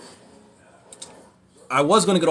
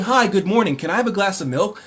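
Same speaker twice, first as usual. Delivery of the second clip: higher and louder, German speech played as angry; mock angry German; 6 semitones higher, 3 dB louder than usual. Streamer joking about how Germans sound, mock angry. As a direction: bark a polite request like an angry German. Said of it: "it sounds like they're angry".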